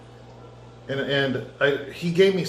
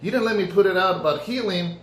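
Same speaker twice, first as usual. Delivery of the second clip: much higher, eager and pleading; excited pleading; 6 semitones higher than usual. Retold or imitated. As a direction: burst out with hope that God finally agrees. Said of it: "And I'm like".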